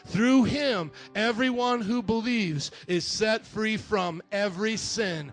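slow, weighty scripture read. Acted. Preacher reads Acts to the church, slow and solemn.

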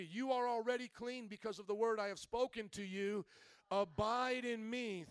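measured, emphatic Bible reading; scripture reading. Acted. Pastor reads Jesus' words to the congregation, scripture reading. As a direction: read the verse out to the congregation.

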